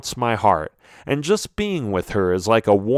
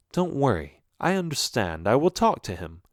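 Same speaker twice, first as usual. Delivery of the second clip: reassuring mother; 4 dB quieter than usual. Acted. Mother reassures her son.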